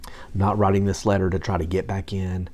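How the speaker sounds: soft sincere plea; tender letter. Retold or imitated. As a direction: read it gently like a love letter to grandma. Reading his letter to grandma.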